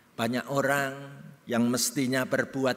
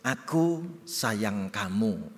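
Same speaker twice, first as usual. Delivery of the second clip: tender; 3 semitones lower, much slower than usual. Shown as a demonstration.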